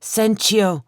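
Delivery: slow, high, stuttering foreign words; fearful stammer. A narrator's reading. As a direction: stammer in terror, foreign tongue. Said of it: "His voice was thick with fear".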